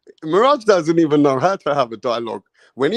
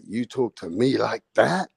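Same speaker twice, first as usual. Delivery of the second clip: hammed-up New York brag. Imitating Rick Glazier boasting to Mirage, hammed-up brag. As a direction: puff up like a Bronx tough guy. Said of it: "Rick Glazier's like".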